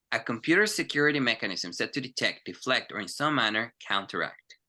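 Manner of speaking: fluent teacher demo read; model reading. Shown as a demonstration. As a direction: read it for them to listen to. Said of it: "escúcheme y no pronuncie".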